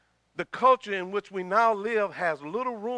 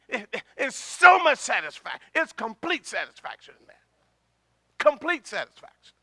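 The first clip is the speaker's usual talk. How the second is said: raised, emphatic preacher's voice; forceful preaching; 4 semitones higher, 8 dB louder than usual. Real, not acted. Preacher assuring the congregation of satisfaction, forceful preaching. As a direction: preach it with force, punching key words.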